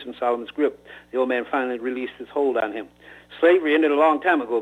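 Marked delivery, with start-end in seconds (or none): 3.4-4.6 shout. Acted. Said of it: "Mike shouted".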